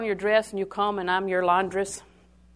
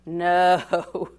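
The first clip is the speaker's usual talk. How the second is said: firm no; 2 semitones lower, 6 dB louder than usual. Retold or imitated. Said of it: "I looked at his face and I said".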